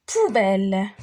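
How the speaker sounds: "Poubelle" as pou then a held belle; syllable by syllable. Shown as a demonstration. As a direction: lengthen the second syllable of "Poubelle". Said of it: "غادي نقسموهم على لي سيلاب".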